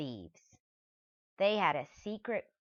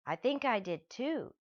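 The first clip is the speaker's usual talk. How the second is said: quivery voice; 7 semitones higher than usual. Acted. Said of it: "in a quivery voice".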